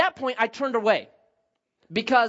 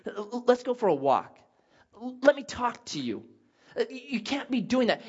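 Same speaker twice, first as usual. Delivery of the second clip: gentle. Retold or imitated. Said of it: "gently admonish you".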